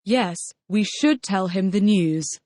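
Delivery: should stressed in "we should tell". Shown as a demonstration. Student answering in a drill, should stressed. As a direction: lean on should to contradict. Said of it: "using emphatic forms".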